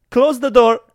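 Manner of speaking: put-on high, loud little-kid order; bossy toddler. Toddler orders the rescuers, high and bossy. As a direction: boss the grown-ups around.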